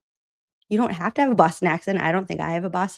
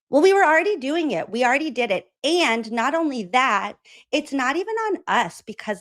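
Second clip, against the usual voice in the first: higher-pitched, quick mock protest; defensive retort; 6 semitones higher than usual. Retelling an official's reply to criticism, defensive. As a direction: push back in a higher, hurried voice.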